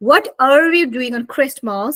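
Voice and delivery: American linked what-are with r; American-style Christmas question; American accent. Shown as a demonstration. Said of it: "So American people speak kind of like that".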